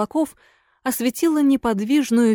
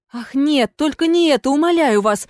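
crying out; 5 semitones higher than usual. Acted. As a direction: cry out in alarm. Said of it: "вскричало привидение".

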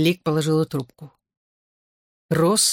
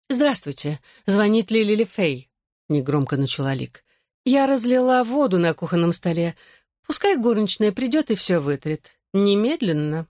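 Lily's sweet voice; 3 semitones higher than usual. Acted. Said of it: "приторно-сладким голосом Лили".

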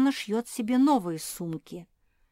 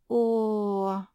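groan; 3 semitones higher, 4 dB louder than usual. Acted. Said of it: "простонала Куки".

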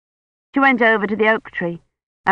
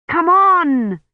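put-on high, louder boyish call; 11 semitones higher, 4 dB louder than usual. A narrator's reading. Colin calling Kivrin from the thicket, loud. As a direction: shout it from inside the thicket.

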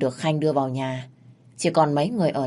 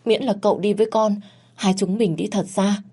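higher, faster reproach turning to desperate begging; reproachful pleading; 4 semitones higher than usual. Acted. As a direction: blame him, then cling to him. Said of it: "lên tiếng trách móc".

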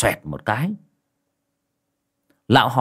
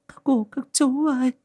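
much higher grieving plea; a widow lamenting bitterly at the funeral. A narrator's reading. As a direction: cry out your grief to the relatives. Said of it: "oán thán cay đắng".

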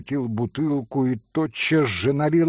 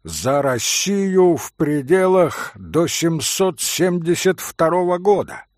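booming voice; 4 semitones higher than usual. Acted. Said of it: "зычным голосом проговорил".

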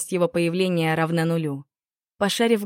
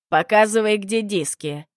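put-on loud, pushy old man; hurrying demand; 3 semitones higher, 4 dB louder than usual. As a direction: bark it out impatiently. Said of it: "торопил меня олдмен".

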